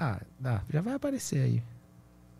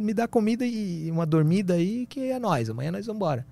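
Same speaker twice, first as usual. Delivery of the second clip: high, pleading scrounger; begging voice; 7 semitones higher than usual. Retold or imitated. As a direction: whine for food and a bed. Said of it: "Ele falou assim, ó, um sinalzinho de comida".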